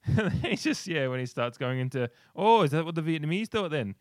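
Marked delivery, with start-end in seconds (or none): 2.3-3.9 loud, high incredulous challenge; mock outburst. Retelling a film fight to his co-host, mock outburst. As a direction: throw it out loud, pitched well up.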